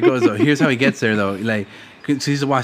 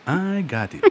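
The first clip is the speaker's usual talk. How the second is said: polite phone voice; sweet customer-service voice; 4 dB quieter than usual. Shown as a demonstration. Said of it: "That's my phone voice".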